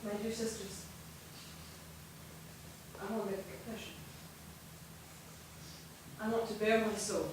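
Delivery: soft, low, intimate confession; hushed confession. Acted. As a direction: confide the secret quietly to her sisters. Sister confesses her secret love.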